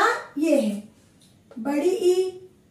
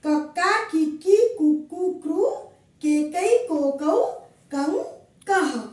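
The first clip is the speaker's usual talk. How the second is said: sing-song chanting of the syllable chart; rhythmic recitation. Shown as a demonstration. Teacher leading pupils through the chart, rhythmic chant. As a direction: recite the barakhadi in a steady rhythm. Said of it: "तो इसको हम ऐसे पढ़ेंगे".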